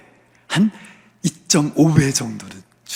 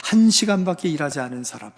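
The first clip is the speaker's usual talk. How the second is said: high, indignant protest, acted out; resentful complaint; 5 semitones higher than usual. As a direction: complain bitterly as a worker wronged by the boss. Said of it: "이렇게 주인께 원망한 거예요".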